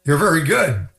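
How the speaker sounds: weak put-on German accent. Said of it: "was that your German accent?".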